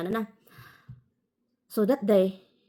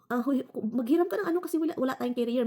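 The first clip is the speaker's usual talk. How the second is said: higher, hurried urging; urgent request; 6 semitones higher than usual. Retold or imitated. Telling her husband to borrow a carrier, urgent. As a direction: press him to borrow.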